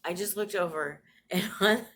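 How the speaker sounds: can't believe the timing; amazed. Real, not acted. Vlogger surprised by a message mid-video, laughing amazed. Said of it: "this is so crazy to me".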